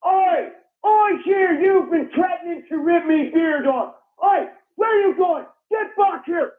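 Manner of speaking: calling after someone in a hammed-up fury; hammed-up "Oi, come here" yell; mock outraged yell. Acted skit, yelling at intruder.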